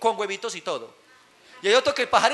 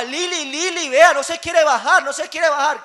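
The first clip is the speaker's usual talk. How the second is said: helpless father; 4 semitones higher, 5 dB louder than usual. Acted. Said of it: "y llega el papá".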